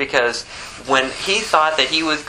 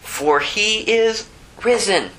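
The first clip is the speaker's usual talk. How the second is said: a high, ringing proclamation as the angel; angel's proclamation; 9 semitones higher than usual. Acted. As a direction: announce it with triumph, much higher. Preacher voices the angel's announcement.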